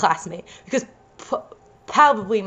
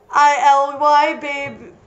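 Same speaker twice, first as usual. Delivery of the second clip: playful text speak; 3 semitones higher, slower than usual. Acted.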